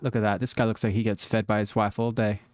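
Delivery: ordinary talk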